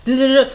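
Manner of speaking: quick "duh" syllables mimicking typing; imitated keyboard clicking. Friend searching records on the keyboard, imitated clicking. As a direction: tap out typing with the voice. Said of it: "I just hear clicking on the keyboard".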